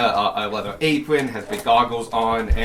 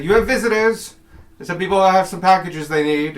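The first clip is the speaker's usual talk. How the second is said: clerk voice; 8 semitones higher, 6 dB louder than usual. Acted. Clerk voice announcing visitors.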